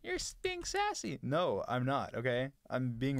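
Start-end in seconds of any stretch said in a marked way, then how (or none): 0.0-1.2 mock sassy. Mocking viewers' sassy tone.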